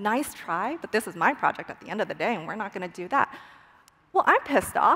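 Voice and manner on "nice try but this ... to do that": dismissive, brush-off tone. Voicing what a partner's tone says about the project: imitating a dismissive tone. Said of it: "I know that tone".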